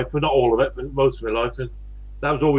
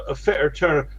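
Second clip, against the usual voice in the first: broad West Country fitter turner; West Country accent. Real, not acted. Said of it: "that's my West Country accent".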